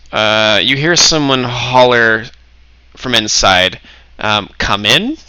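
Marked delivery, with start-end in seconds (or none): 4.6-5.2 "Come in?" asked like a question; questioning tune. Acted. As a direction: say "Come in?" as if unsure it's right. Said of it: "Like it's a question".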